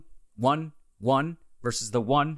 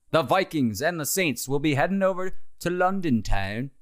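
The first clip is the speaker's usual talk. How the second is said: attempted London accent, slightly higher; botched London accent; 4 semitones higher than usual. Host previewing the London game, botched London accent. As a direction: have a shaky go at a London accent and miss. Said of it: "What is that accent? That's not it".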